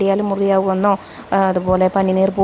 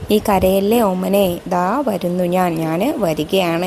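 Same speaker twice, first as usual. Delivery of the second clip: put-on slow, soothing words to a child; lightly acted tender mother, settling downward; mother's comforting; slower than usual. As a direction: coax gently, drawing the words out. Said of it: "എന്ന് പറയണമ്മ".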